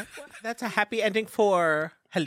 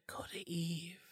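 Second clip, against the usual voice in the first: ghost whisper; 16 dB quieter than usual. Retold or imitated. Ghost urging in vision.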